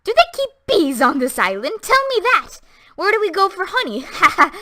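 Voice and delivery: high, loud, laughing cries; wild hysterical laughter. A narrator's reading. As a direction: cry out, breaking into mad laughs. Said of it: "She cried out in a high, shrill voice, shaken with the wild bursts of laughter".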